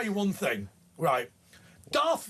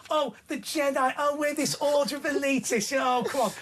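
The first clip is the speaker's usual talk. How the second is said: higher-pitched mocking quote; mock Jedi apologist; 6 semitones higher than usual. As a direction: imitate someone making excuses for the Jedi, exasperated. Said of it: "if you are not on the side of the Sith".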